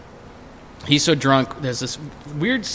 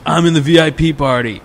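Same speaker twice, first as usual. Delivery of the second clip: raised, loud phone answer; boastful drunk friend; 4 semitones higher, 5 dB louder than usual. Retold or imitated. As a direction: imitate a tipsy buddy proudly announcing.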